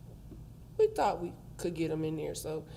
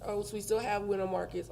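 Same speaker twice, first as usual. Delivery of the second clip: numb mouth; 3 semitones higher than usual. Real, not acted. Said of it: "my mouth is numb".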